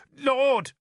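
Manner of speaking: high, loud cry of protest; protesting shout. Acted. Bishop cries out as Arthur strides away, loud and high. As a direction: cry out to stop him. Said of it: "Sansom shouted in protest".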